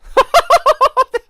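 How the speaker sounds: shrieking delighted laugh; high giddy squeal laugh. Real, not acted. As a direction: squeal with glee. Giddy reaction to confession.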